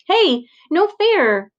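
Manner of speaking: high, very slow whine; whining little sister. A narrator's reading. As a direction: drag it out like a wronged little girl. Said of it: "she whines".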